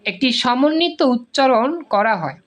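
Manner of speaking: ordinary talk, nothing marked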